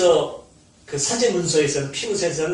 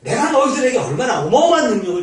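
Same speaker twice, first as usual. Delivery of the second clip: voicing God; 4 dB louder than usual. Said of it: "이러시지 않겠어요? 하나님께서".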